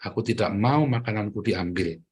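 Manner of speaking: patient, deliberate example phrase; speaking nicely. Shown as a demonstration. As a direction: demonstrate asking properly, without yelling. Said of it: "ngomong yang baik".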